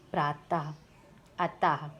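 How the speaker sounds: प्रातः said slowly with a final ह breath, like प्राताह; अतः ending in a clear ह sound, like अताह; visarga as ha. Shown as a demonstration. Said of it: "इसका उच्चारण हा के स्थान पे होता है".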